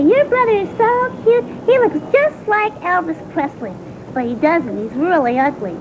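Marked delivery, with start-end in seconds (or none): 0.0-3.7 high-pitched imitation of swooning girls; mock schoolgirl gush; gushing girlfriends. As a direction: mimic girls gushing over a crush. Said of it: "All my girlfriends say".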